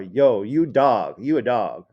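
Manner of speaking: admiring homie-style call-out; dude to dude. Shown as a demonstration. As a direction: hail your buddy slowly and loudly. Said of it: "a dude saying it to another dude".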